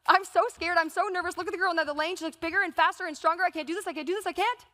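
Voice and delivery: rising, anxious rush of self-doubt; panicked inner voice. Retold or imitated. Hurdler's inner voice behind the blocks, panicking. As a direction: spiral into pre-race panic. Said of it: "all I was thinking was".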